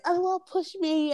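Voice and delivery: high, slow, whiny imitation of a girl telling on someone; put-on complaint to the teacher; mock tattling. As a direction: mimic a tattletale, stretched out and high.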